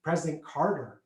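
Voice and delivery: put-on bait the kid with a grin; lightly voiced parent teasing. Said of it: "they'd be like".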